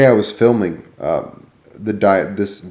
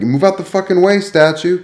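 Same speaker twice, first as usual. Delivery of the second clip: mock rude shout; 8 semitones higher than usual. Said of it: "I was like".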